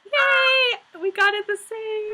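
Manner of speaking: squealing with joy; high happy shout; excited cheer. Real, not acted. Excited match of answers.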